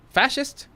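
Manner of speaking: Fascist? rising high at the end like a question; questioning rise. Shown as a demonstration. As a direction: test the word Fascist? with a high rising tune. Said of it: "first syllable".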